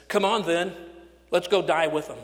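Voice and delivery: bold call. Acted. Thomas rallies the disciples.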